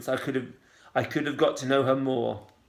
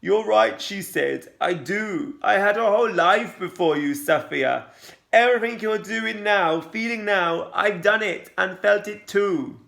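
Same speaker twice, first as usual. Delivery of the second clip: mild tremble in a raised voice; voice shaking; 5 semitones higher, 3 dB louder than usual. A narrator's reading. Mum answers her daughter's attack, shaking with emotion. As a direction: hold back tears while answering. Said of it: "Her voice was shaking".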